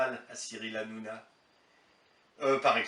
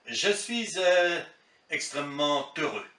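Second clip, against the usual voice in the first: Chirac with false liaisons; 2 semitones higher than usual. Retold or imitated. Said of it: "pour ses abus de liaison".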